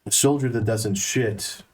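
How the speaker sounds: slow, serious soldier voice; gruff soldier. Acted. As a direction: deliver it like grim wisdom. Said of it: "Kale goes".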